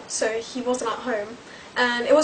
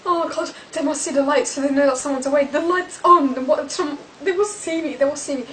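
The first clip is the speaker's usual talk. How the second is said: retold panic; 2 semitones higher than usual. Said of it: "I was like".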